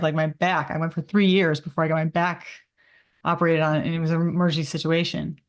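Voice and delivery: slightly slurring words; slurred speech. Real, not acted. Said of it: "I'm starting to slur right now".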